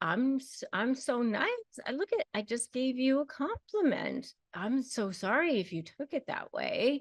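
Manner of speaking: high, condescending, sweetly superior fake innocence. Showing how they deny belittling you: imitating a falsely innocent, superior tone. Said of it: "kind of condescending, sort of superior".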